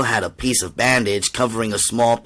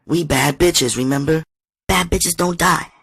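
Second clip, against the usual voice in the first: plain reading voice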